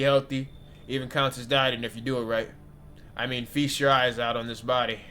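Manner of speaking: a touch of a loud tipsy buddy; tipsy guy. Acted. Drunk visitor pleading to be let in, loud and loose. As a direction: slur it like a friendly drunk. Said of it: "You sound kinda tipsy".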